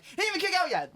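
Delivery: high-pitched outburst of protest; retold protest. Fan protesting a ref's botched count, high outburst. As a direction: call out in disbelief at the ref. Acting out his protest at the ref.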